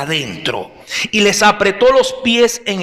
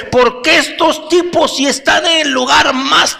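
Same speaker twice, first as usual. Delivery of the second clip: amazed jailer; 6 semitones higher than usual. Acted. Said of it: "debió preguntarse".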